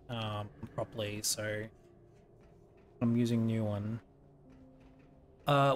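talking while chewing an apple; chomping an apple. Real, not acted. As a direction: mouth full of apple between words. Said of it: "I'm chomping on an apple".

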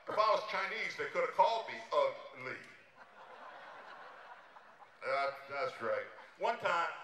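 a lightly done Dangerfield voice, exasperated and self-pitying; Rodney Dangerfield impression. Comic on stage doing a Dangerfield set, self-pitying. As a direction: play it like a put-upon comic who gets no respect.

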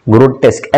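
ग्रोटेस्क as one joined word, "gro-tesk"; correct pronunciation. Shown as a demonstration. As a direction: model ग्रोटेस्क plainly, ending on "sk". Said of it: "ऐसी pronunciation होता है".

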